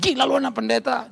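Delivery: acted indignant mother; protesting wife. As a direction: imitate a wife's objection. Acting wife's objection.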